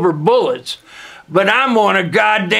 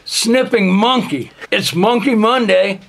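ordinary delivery

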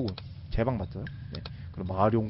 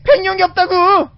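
high loud slow wail; frustrated shout; 13 dB louder than usual. Real, not acted. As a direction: cry out in mock despair. Frustrated no white dragon.

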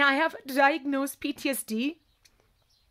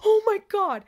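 high, loud agonized cry; acted pain; 5 semitones higher, 6 dB louder than usual. Handcuffed and told not to talk, loud pained cry. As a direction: cry out as if the cuffs bite.

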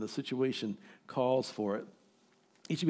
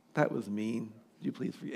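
humble apology; 5 semitones lower, 6 dB quieter than usual. Retold or imitated. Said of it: "to say".

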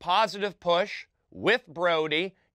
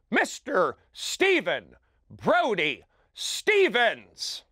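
booming show-intro read, slowing on the name; announcer intro; 3 dB louder than usual. Acted. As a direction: bring out the host like a game-show announcer.

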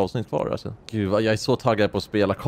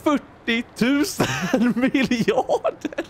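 high, slow, mock-earnest reveal breaking into a laugh; mimicking her; 3 semitones higher, slower than usual. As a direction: play the politician proudly announcing an absurd sum, very high. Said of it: "Och hon bara". (hånfull imitation, ljus och långsam, med skratt)

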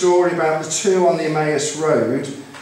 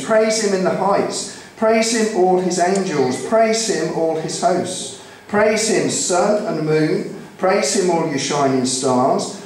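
raised, rhythmic scripture reading; psalm proclamation; 3 semitones higher than usual. Real, not acted. Preacher reads Psalm 148 to the congregation, proclaiming. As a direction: call all creation to praise, line by line.

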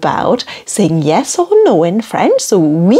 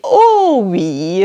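French yes. Shown as a demonstration. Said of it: "You can say".

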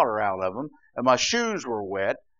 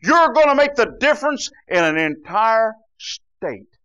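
loud, slow, high declaration; slow emphatic proclamation; 8 semitones higher, 9 dB louder than usual. Real, not acted. Preacher rallying the congregation, loud and slow. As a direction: proclaim it slowly with force.

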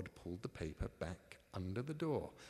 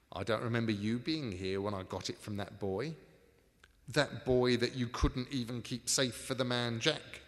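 quarrelling crook; 5 dB louder than usual. Acted.

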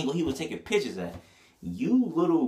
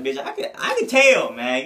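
a hint of a guy catching the waist trainer; mock guy sizing her up; 4 dB louder than usual. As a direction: call it out like you spotted her.

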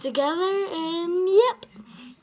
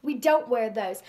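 bold spoken-word delivery, a touch louder; slam poetry recitation; 4 dB louder than usual. Acted. Girl performing her slam poem for viewers, earnest.

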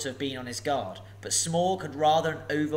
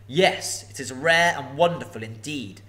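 louder, preening dragon; absurdly pleased; 6 dB louder than usual. Acted. Flattered dragon answering Bilbo, preening. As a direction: purr with vanity. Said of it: "absurdly pleased".

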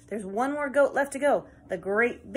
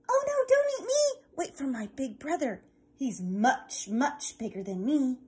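high, frightened squeak then settling; tiny goat begging not to be eaten; pleading tiny goat; 3 semitones higher than usual. Acted. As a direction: beg the troll in a little voice.

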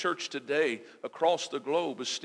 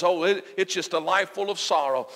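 louder, pressing voice of doubt; enemy's voice; 3 semitones higher, 5 dB louder than usual. Acted. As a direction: push it out loudly as the accusing enemy. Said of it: "That voice comes again and says".

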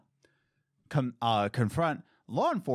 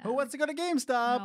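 exaggerated cartoon intonation; 11 semitones higher, faster than usual. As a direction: stretch it out like a cartoon host. Hyped announcer bit.

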